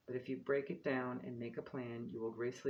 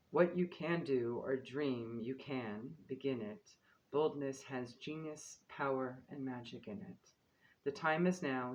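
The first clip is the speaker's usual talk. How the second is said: reading a quote aloud. Acted. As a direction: read it like a solemn quote. Reads the card's quote aloud.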